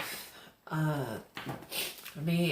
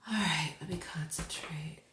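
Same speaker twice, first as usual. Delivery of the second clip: whispering; 6 dB quieter than usual. Real, not acted. Settling in to focus on reading.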